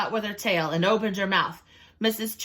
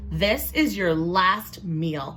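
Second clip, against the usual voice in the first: slow menacing crocodile; slower than usual. Acted. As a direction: savour the last meal. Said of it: "Crocodile said".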